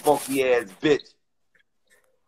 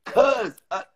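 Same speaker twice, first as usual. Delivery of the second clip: worked-up answer; 7 semitones higher than usual. Real, not acted. Man answering why he's so angry, heated. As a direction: burst out with the reason, heated.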